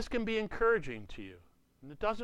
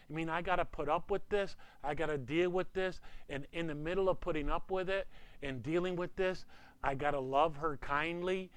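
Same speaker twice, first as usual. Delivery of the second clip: higher-pitched, put-upon listing of burdens; mock protest; 3 semitones higher than usual. Husband listing burdens to God, mock protest. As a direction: pile up the complaints to God.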